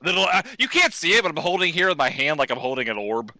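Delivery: muffled, speaking into a cupped hand; talking into hand. Real, not acted. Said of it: "As I'm talking into my hand".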